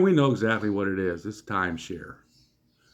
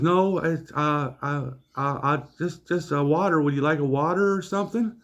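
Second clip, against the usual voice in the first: put-on higher-pitched, stammering young waiter; mock flustered; 4 semitones higher than usual. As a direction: stumble over the words, pitched up. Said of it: "He didn't know what to say".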